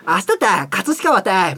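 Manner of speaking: car-navigation guide in Kumamoto dialect; mock announcement with a Kumamoto lilt. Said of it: "熊本弁で". (熊本弁のナビ風)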